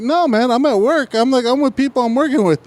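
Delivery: high-pitched insistent protest; worked up. Retold or imitated. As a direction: push back, voice pitched high.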